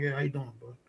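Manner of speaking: low, quiet, offhand greeting back; reply politely with little interest. Retold or imitated. His reluctant reply to the stranger.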